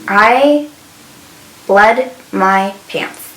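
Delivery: slow, halting retold admission; sigh, then let it out word by word; drawn-out, dramatized confession with long pauses; reluctant confession. Retold confession to nurse's aide.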